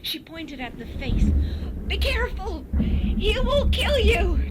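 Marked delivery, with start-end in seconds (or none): 1.9-4.4 terrified scream; frantic shriek. A narrator's reading. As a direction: shriek the warning at the men. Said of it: "she shrieked".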